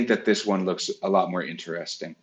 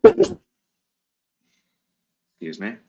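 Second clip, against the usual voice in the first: sneezing mid-word; 3 semitones higher, 7 dB louder than usual. Real, not acted. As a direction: sneeze through the words. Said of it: "I'm about to sneeze".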